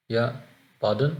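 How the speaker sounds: pardon slow, tone rising at the end; questioning pardon. Shown as a demonstration. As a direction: ask pardon politely, lifting the end. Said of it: "एंड में जो tone है थोड़ी ऊपर होनी चाहिए". (pardon सवाल की tone में, अंत में ऊपर)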